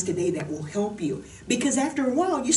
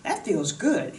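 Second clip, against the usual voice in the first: a squeaky high "Hey" from the arm bone, then an easy "that feels good"; lightly voiced happy humerus; 3 semitones higher, much slower than usual. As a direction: voice the shoulder joint as a pleased little character. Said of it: "The cap of your humerus is going".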